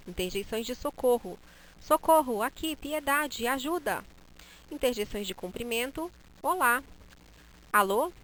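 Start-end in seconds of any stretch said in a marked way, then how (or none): 1.8-4.0 higher, louder mock calls for help; cries for help. Shown as a demonstration. Teacher acting someone in danger, mock cries. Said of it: "pronunciar da forma como eu queria". 6.4-8.1 higher, louder greeting; greeting calls. Shown as a demonstration. Teacher demonstrating greetings, bright calls. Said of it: "pronunciar da forma como eu queria".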